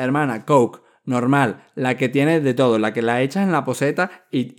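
loud impatient insisting; exasperated. Retold or imitated. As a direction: spell it out, fed up. Exasperated customer demands plain Coke. (cliente harto pidiendo Coca-Cola normal, fuerte)

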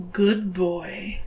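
hushed, pleased murmur close to the ear; contented whisper. A narrator's reading. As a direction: whisper it with satisfaction. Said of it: "she whispered contently in my ear".

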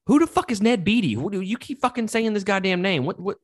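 who is this guy, baffled and worked up; incredulous outburst. Real, not acted. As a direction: demand an answer, voice shooting up. Outraged confusion at unknown name.

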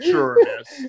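high, sarcastic sure miss; mocking, disbelieving cop; mock disbelief. Mocking the woman's excuse.

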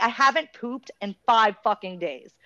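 exasperated rant. Retold or imitated. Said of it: "I was like".

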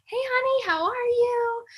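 high, sing-song carefree goodbye; mock cheery self. Telling the husband goodbye, high mock cheerfulness.

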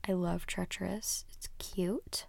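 soft unvoiced gush; hushed fond whisper. Real, not acted. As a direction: whisper it like a secret crush. Whispered fangirl aside.

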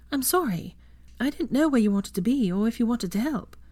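apologetic. A narrator's reading. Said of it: "said apologetically".

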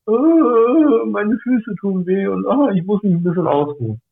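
imitated crybaby moaning; mock whining. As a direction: whine in mimicry about a tiny complaint. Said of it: "du heulst wegen ein bisschen".

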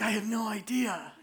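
a tired mother, answering through a laugh; half-laughing shrug of an answer; laughing mom. Retold or imitated. Mother laughs at her child's question. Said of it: "Mom's like".

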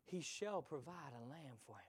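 whispered trusting reply. Acted. Abraham answering his son Isaac, whispered. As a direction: breathe the promise softly.

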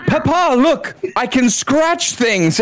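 put-on high, childlike show-off cat voice; excited cat. Cat showing off to papa, high excited voice. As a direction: pipe up proudly as the cat. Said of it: "start scratching stuff and be like".

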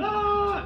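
high-pitched imitated "ah" cry; imitated shout. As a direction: imitate a man suddenly crying out. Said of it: "Empezó a gritar". (grito imitado)

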